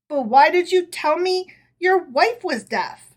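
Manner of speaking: raspy hoarse voice; hoarse rasp. A narrator's reading. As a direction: rasp it after screaming. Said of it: "rasped ... in a hoarse voice".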